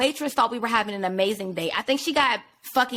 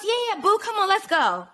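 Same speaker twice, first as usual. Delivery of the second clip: mock sweet date; 8 semitones higher than usual. Mimicking date's sweet reply.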